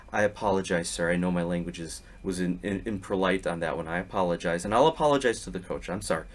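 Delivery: mock sincere apology to the referee; fake contrite apology. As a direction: ham up a false innocence. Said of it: "like a true sociopath".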